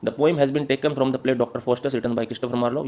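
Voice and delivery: slow, measured read-out; dictation. Acted. Teacher giving students the poem's structure answer, slow dictation. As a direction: read it out slowly for copying.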